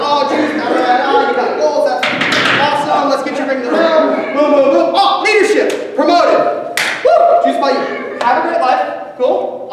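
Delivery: loud, fast, high hype-man patter; mock upbeat manager rushing off; hyped-up recruiter pitch. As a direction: pump them up like a salesman closing fast. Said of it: "I'd be like".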